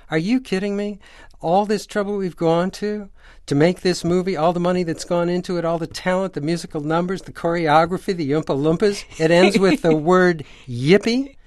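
retold outrage. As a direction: play the producer in disbelief, voice climbing. Producer outraged over the ending.

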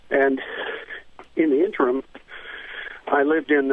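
breathless from running up stairs; winded, catching breath between words. Real, not acted. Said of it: "I'm out of breath".

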